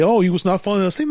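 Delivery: mocking quote. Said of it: "And you say".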